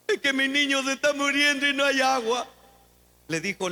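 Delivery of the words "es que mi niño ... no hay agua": lamento lloroso fingido; chillando. Acted. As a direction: imita a una madre que gimotea, en un quejido sostenido. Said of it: "Agar dice que estaba chillando". (lloriqueo actuado y monótono)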